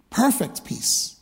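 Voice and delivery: slow breathy whisper of the words. Real, not acted. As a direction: drop to a hushed whisper to savour it. Preacher hushes on key phrase.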